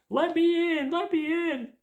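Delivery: shrill high yell at a locked door; screaming. Retold or imitated.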